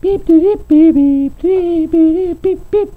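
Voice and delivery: very high, beeping robot monster chatter; robot monster beeps. Acted. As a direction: beep it out like an arguing robot monster. Monsters overheard in intense discussion.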